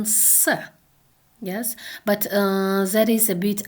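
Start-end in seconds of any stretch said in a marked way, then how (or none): 0.0-0.5 a lone hissed "s" sound; Russian s. Shown as a demonstration. Lecturer giving the alternative Russian sound, isolated s. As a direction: say "s" as a separate Russian consonant. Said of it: "correspond to the Russian".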